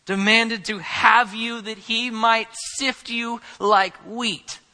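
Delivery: slow, loud and grave, calling Simon by name; a weighty warning, each word drawn out; Jesus solemnly warning Peter, loud and slow. Acted. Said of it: "and he says".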